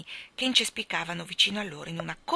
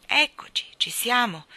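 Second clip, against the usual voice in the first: higher, louder arrival call; announcing cry; 5 semitones higher, 6 dB louder than usual. Acted. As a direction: shout that they've arrived. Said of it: "gridò il salmone". (grido d'arrivo)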